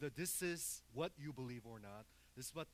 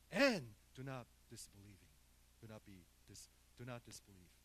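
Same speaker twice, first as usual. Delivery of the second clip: gentle rebuke; 3 semitones lower, 4 dB louder than usual. Acted. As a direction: let the rebuke melt down into tenderness. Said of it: "he said to Thomas".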